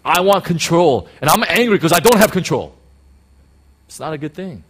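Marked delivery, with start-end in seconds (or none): 0.0-2.7 mock blunt confession. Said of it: "what you're really saying is".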